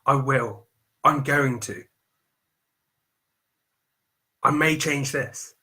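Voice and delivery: mock the wavering future tense; half-hearted maybes; hesitant, noncommittal. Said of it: "catch yourself saying".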